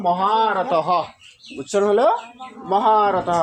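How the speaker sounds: মহারথ with a long "haa" and final "ha"; pronunciation demo. Shown as a demonstration. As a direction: model মহারথ as "ma-haa-ra-tha-ha". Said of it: "তাহলে উচ্চারণ কি হলো?". (মহারথ স্পষ্ট উচ্চারণে)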